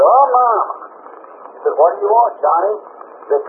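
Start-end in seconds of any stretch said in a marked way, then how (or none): 0.0-0.7 put-on high-pitched scared child's holler for Mama; hollered call. Frightened boy calls his mama during a storm, hollering. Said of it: "And he hollered". 1.8-2.7 higher-pitched mama answering a call; lightly voiced mother. Mama answers little Johnny in the storm, lightly imitated.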